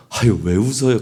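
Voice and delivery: imitating a good-natured, curious question; friendly curiosity. Bystander to someone giggling beside them, friendly curiosity. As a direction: lightly ask as if wanting in on the joke. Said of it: "막 실실 웃는데 옆에 와서 막 화를 내면서".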